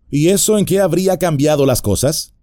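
mock innocent hobbit reply; a hint of sly hobbit; cheeky hobbit. Merry challenges the bandit.

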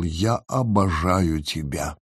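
soft, slow loving whisper. A narrator's reading. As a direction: breathe it tenderly. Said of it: "он прошептал".

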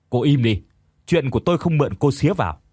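snapping. Acted. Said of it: "Thành nạt lại".

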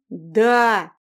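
loud snapped Да; barked yes. Acted. Exasperated husband barking yes at the girl. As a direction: bark Да at her. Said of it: "рявкнул выведенный из себя юноша".

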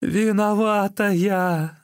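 slow, high, loud cry; wife admitting guilt to her husband, high slow cry; desperate confession. Acted. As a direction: wail out the guilt.

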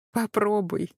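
playful laughing dare. A narrator's reading. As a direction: tease him with a laugh. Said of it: "засмеялась я".

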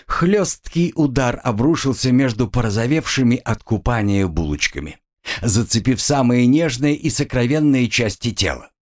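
plain reading voice

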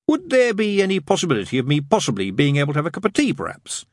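tentative. A narrator's reading. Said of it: "he ventured".

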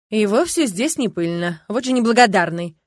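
loud, indignant amazement; astonished exclamation. A narrator's reading. Kastro rebukes the ungrateful youth, exclaiming in amazement. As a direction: exclaim at such ingratitude. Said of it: "воскликнул Кастро и в изумлении".

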